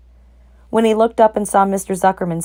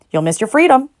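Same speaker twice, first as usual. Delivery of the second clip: honking warning; 7 semitones higher, 4 dB louder than usual. A narrator's reading. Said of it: "honked the goose".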